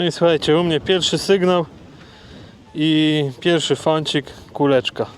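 windy outdoor recording; wind on mic. Real, not acted. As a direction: wind noise over the mic. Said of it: "Sorry za ten wiatr".

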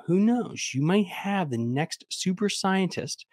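mildly earnest, slow delivery; a touch of proud official. Retold or imitated. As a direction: play it like a hopeful school official. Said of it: "I can hear the tone".

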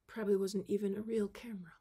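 breathy aside whisper. Real, not acted. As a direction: say it under your breath. Whispered aside about the camera.

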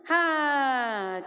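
put-on a loud, high હા like the children's answer; loud yes. Shown as a demonstration. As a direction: call out હા the way the class just did. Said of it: "કેવું મોટેથી બોલ્યા?". (બાળકોની જેમ મોટેથી હા)

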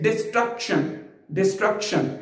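डिस्ट्रक्शन said carefully, stress on -ट्रक-; correct pronunciation. Shown as a demonstration. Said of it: "word है". (सही उच्चारण)

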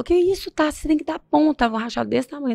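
mild retold alarm. Retelling a friend seeing her head wound, mildly alarmed. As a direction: start high in mock alarm, then ease down.

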